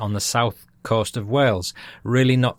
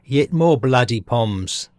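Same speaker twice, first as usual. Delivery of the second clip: slow, put-on Aussie grumble; mock Australian; 2 semitones higher, 4 dB louder, slower than usual. Host mimicking Aussies on British arrivals, mock Australian accent. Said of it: "to coin a phrase".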